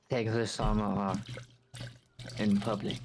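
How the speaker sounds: drawn-out prim refusal; very slow, prim. Acted. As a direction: stretch every word, prim.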